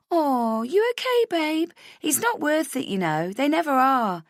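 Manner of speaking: put-on very high cooing girls' chorus; sympathetic girls. Girls at the mirror consoling a crying stranger, high and cooing. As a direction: coo over her like strangers in a bar toilet.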